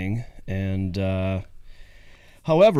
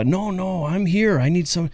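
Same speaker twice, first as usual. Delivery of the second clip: put-on higher eager kid pleading; little boy voice; 7 semitones higher than usual. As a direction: coax like a grandson. Grandson voiced on the phone.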